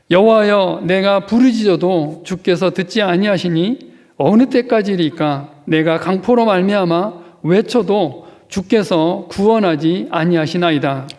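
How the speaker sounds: loud, pleading lament read aloud; fervent scripture reading. Acted. Pastor leading the congregation in Habakkuk's lament, fervent reading. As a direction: cry the prophet's complaint out to the hall.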